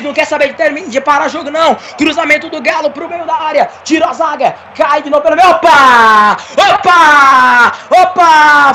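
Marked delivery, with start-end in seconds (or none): 5.5-8.7 surprised exclamation. Real, not acted. Fight breaks out on pitch.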